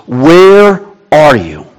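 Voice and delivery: slow, stretched-out question; crying out. Acted. Habakkuk calling to an unanswering God, slow drawn-out cry. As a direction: hold "where" long, then let it fall. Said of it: "I continue to cry out to you".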